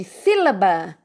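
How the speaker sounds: "sílaba" with a strong SÍ, falling away after it; stress on first syllable. Shown as a demonstration. Teacher showing students the strongest syllable, stressed "sílaba" on SÍ. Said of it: "o si é a antepenúltima e a mais forte".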